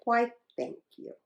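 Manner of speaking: soft, sweet thanks; sweetly. Acted. Hippo thanking the elephant sweetly. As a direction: say it with a smile. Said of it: "smiled sweetly".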